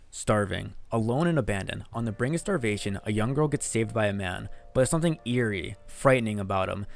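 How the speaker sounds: steady, measured voiceover read; story narration. Acted. Streamer reading a creepy story script, narration voice.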